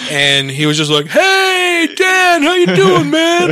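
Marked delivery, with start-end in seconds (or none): 1.1-3.5 much higher, hammed-up friendly guy calling out; overfriendly greeting. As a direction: greet him like a long-lost buddy. Imitating overly friendly old enemy.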